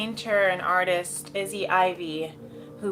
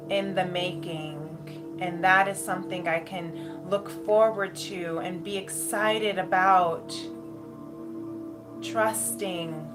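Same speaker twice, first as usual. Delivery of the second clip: airy breathy mystical healer. Acted. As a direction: guide them gently into bliss, unhurried. Channels a guided meditation with music.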